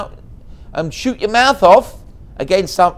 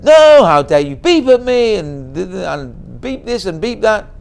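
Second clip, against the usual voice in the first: louder, indignant "how dare you"; mock angry shout; 7 dB louder than usual. The angry driver berating the man behind. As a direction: rant like an offended driver. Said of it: "starts shouting at him".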